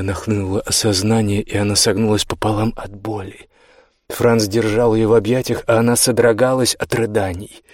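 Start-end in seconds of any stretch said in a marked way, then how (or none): none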